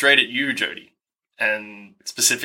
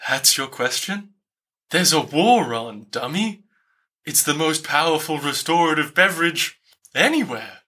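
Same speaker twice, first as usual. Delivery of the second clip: scornfully incredulous, taking your time; 3 semitones higher than usual. Acted. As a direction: draw out the question as if it's absurd. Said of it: "incredulous and is like".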